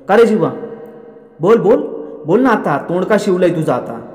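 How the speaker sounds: mock-angry father's interrogation; angry demand. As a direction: press him hard for an answer. Father interrogating silent son.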